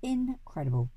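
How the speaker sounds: astonished exclamations, pitched high; amazed cry. A narrator's reading. Duke marvelling at the window cleaners, amazed cries. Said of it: "cried the Duke".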